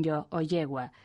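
yo and yegua with Argentine zh for y. Shown as a demonstration. As heard from Argentinians and Uruguayans, zh in yo, yegua. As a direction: say the y of yo, yegua the River Plate way. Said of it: "semejante a la que se les oye a argentinos".

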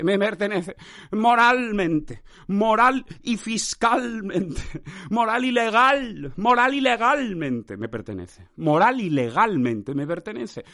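slow, drawn-out insistence on each long word; hammed-up ownership claim. Podcaster claims moral and legal ownership of his podcast, hammed-up and insistent. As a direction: declaim it slowly, stretching the vowels.

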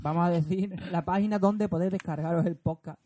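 holding back laughter mid-sentence; trying not to crack up; stifled giggles. Real, not acted. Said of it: "No te rías".

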